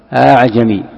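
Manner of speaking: أعجمي opening on a hamza then an eased one; tasheel. Shown as a demonstration. Teacher giving a second example, eased hamza in أعجمي. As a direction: glide over the second hamza starting أعجمي. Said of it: "يسمى التسهيل، مثل".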